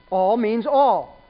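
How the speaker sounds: "All means all" spoken slowly, each word weighed; slow it right down on "All means all"; slow emphasis. Shown as a demonstration. Preacher driving home that all means all, slow and deliberate.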